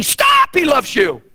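sudden high-pitched shout; emphatic exclaimed command; sharp interruption. Acted. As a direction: cut the doubter off. Cuts off a doubter's objection.

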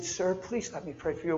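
soft, polite appeal; softly coaxing a stranger; gentle plea. Retold or imitated. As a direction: ask gently and kindly. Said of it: "And I'm gentle".

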